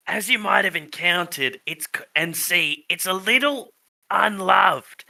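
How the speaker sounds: lightly put-on old tree voice; talking tree. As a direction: explain as a tree creature, slightly hammed-up.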